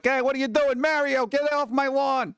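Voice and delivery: high, put-on henchman voice; complaining evildoer. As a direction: grumble at Mario like a cartoon baddie. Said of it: "they're all complaining and whining".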